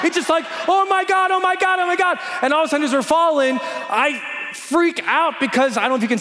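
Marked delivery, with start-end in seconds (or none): 0.7-2.2 higher, run-together mock panic; panicked repeating. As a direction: chant it in acted alarm. Acting out panic while falling.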